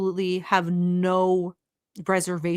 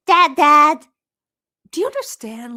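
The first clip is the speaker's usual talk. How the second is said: exasperated shout; 7 semitones higher, 8 dB louder than usual. Real, not acted. Exasperated outburst at the clip.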